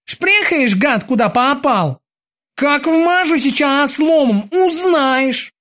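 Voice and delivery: high, slow menacing threat; threatening sailor. Acted. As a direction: growl out the threat slowly. Kiki threatening the German.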